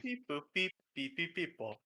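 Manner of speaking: beeping like a robot. Pretend. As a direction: mechanical robot beeps. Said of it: "Insanity is a robot".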